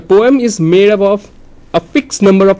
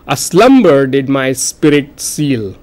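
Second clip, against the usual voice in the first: slow verse line leaning on "slum", "spi" and "seal"; weight "slum" in slumber, "spi" in spirit, and "seal"; stressed syllables marked; 3 semitones lower than usual. Shown as a demonstration. Teacher showing stressed syllables, slow line weighted on "slum", "spi", "seal". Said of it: "stressed syllables".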